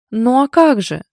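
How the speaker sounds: loud, high, jolly comeback; amused retort. A narrator's reading. Friend joking back about men, amused. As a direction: fire back merrily, no real laugh. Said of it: "хохотнула в ответ подруга".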